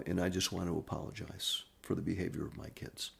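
softly retold grieving apology, no sobs; subdued grief. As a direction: quietly voice a bereaved father holding back tears. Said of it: "control himself through the sobbing".

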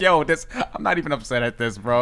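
soft, unbothered reply; super calm. Retold or imitated. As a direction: imitate yourself staying calm under attack. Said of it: "talking to them super calmly".

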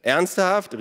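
high, loud incredulous question; calling out. A narrator's reading. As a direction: call back in disbelief. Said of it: "rief er". (hoch und laut gerufen)

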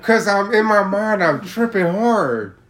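loud and high, stressing how hard it hit; excited telling. Real, not acted. Telling his friend how hard he was tripping, loud and excited.

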